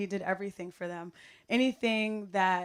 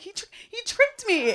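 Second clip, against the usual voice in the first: protesting; 14 semitones higher, 5 dB louder than usual. Retold or imitated. Caught spoiling the score, protesting.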